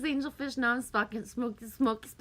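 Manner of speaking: stumbling over the words; stuttering. Real, not acted. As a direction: stammer through it. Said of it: "I'm stuttering".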